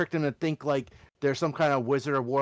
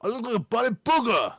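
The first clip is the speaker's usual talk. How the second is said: higher indignant goblin voice; 4 semitones higher than usual. Acted. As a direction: insist you're a cursed goblin. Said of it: "mimic the goblin voice".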